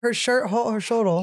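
imitating a pouty toddler; baby voice. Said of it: "and then he would go".

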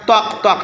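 slow knocks like stone on stone; stone knock imitation. Shown as a demonstration. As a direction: knock out tok tok slowly. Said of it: "তক বলে ব্যক্ত করেছে". (পাথর ঠোকার আওয়াজের ধীর নকল)

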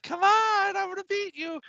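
very high imitation of daughter's taunt; mock taunting kid. Daughter taunting dad while sprinting.

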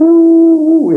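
loud, high-pitched drawn-out ooh; high mock "ooh". Real, not acted. Preacher interrupting the prayer reader, mock high ooh. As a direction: hoot a long high "ooh".

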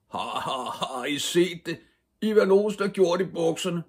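high, loud mocking chant with acted laughter; jeering shout. A narrator's reading. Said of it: "råbte de store drenge". (højt, hånende drilleråb)

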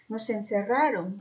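slow mock sobbing through hiccups; hammed-up tearful child; fake hiccuping sob. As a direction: sniffle it out like a staged cry. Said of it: "dijo, entre hipos".

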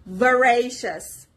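slow "Voracious" with the R syllable loud and drawn out; emphatic teacher's "Voracious", stress on the second syllable. Shown as a demonstration. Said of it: "You pronounce R with louder and longer voice".

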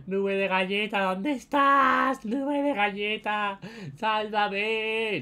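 high, loud, drawn-out plea; calling for help. Real, not acted. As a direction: call out to be rescued. Calling teammate for rescue.

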